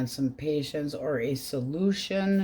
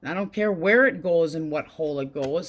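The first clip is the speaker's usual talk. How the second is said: sassy retort; 3 dB louder than usual. Retold or imitated. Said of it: "And I'm like".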